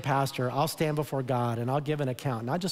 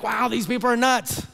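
higher, louder astonished outburst; amazed onlookers; 8 semitones higher, 5 dB louder than usual. Acted. Onlookers reacting to a very loving church, amazed. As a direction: exclaim it like a stunned bystander. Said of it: "people would be like".

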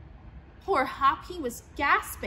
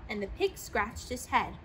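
plain reading voice

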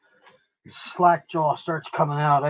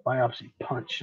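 "Biopsy punch" softer, muttered to self; quiet repeat; 5 dB quieter, slower than usual. Shown as a demonstration. Streamer repeating the term quietly to himself, softer. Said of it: "That's what they are".

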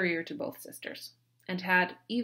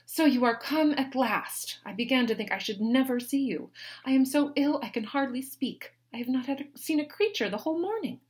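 higher, louder fretful lady; high, loud complaining young lady; Mary complaining; 6 semitones higher, 6 dB louder than usual. A narrator's reading. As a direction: whine it out as the neglected invalid sister. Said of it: "greeted her with".

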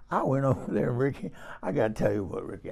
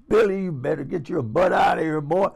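mock scolding; 3 semitones higher, 4 dB louder than usual. Old lady telling a young dance partner off, hammed-up indignant. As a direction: shoo the cheeky boy off, half joking.

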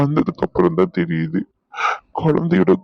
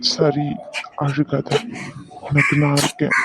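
soothing; 2 semitones lower than usual. Acted. Husband comforts sobbing wife, soothing. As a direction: hush and comfort someone in tears.

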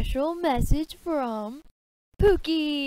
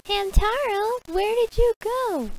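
calling out; 6 semitones higher, 6 dB louder than usual. Acted. Calling out for Hamtaro.

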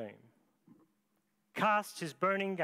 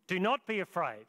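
stronger call; 4 semitones higher, 4 dB louder than usual. Acted. Angel's words repeated, louder.

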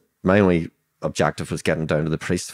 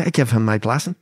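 retold indignant disbelief; 8 semitones higher, 4 dB louder than usual. Teller's outraged reaction to informer news.

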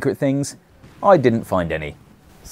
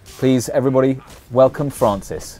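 announcer; 4 semitones higher than usual. Pretend. Introducing friend to viewers.

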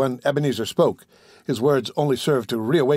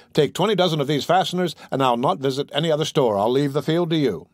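wheedling; 2 semitones higher than usual. Acted. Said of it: "He assumed a flattering, wheedling tone".

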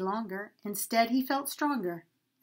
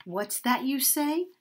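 dread; 4 semitones higher than usual. Acted. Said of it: "cried the donkey with dread".

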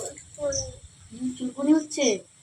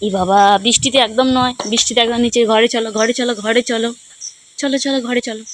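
calling out; 7 dB louder than usual. Real, not acted. Calling child in from rain.

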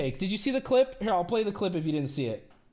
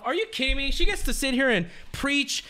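high, indignant outburst; real anger; 4 semitones higher than usual. Real, not acted. Streamer venting at the clip, high indignant anger. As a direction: let the outrage climb. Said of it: "I'm so pissed off".

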